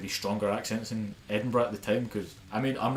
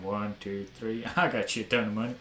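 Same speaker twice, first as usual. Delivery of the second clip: a hint of a weird Florida hick accent; lightly voiced hick counting his money. Robber walking the street counting cash, light hick accent. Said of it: "they're gonna have a weird hick accent".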